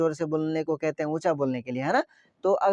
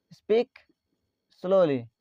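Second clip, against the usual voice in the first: word by word; much slower than usual. Shown as a demonstration. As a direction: separate "Speak slowly" into two spaced words. Teacher repeats phrase word by word. ("Speak slowly" एक-एक शब्द अलग करके)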